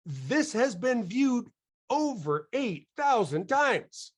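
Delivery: slow, high, drawn-out emphasis; emphatic. Real, not acted. Speaker stressing the review's view count, slow and high. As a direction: lean on every word to impress.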